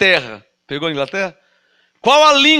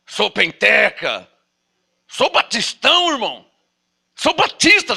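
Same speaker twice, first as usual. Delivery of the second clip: leve imitação de crente se gabando, mais agudo; faça o irmão se vangloriar de leve; crente velho orgulhoso. Retold or imitated. Voices the boastful old believer. (pregador imitando de leve o crente que se gaba da fé)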